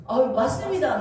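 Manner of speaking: eager agreement. Retold or imitated. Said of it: "내가 딱 그랬어요".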